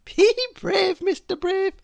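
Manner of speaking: high, loud encouragement; reassuring. A narrator's reading. Miss Somersault cheering Mister Brave on, high and loud. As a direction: buck him up brightly.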